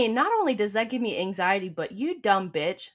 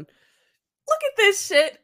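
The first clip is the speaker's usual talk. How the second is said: higher and very slow, amazed; slow disbelieving drawl; 10 semitones higher, 3 dB louder, much slower than usual. Real, not acted. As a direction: drag it out in disbelief. Slow drawn exclamation.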